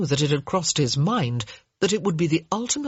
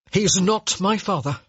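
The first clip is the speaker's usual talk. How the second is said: blurted out; 3 semitones higher than usual. Acted. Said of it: "he finally blurted out".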